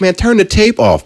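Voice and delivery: high-pitched retold pleading; acted-out exasperation; exasperated plea. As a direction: plead with a character on screen. Pleading with the movie character.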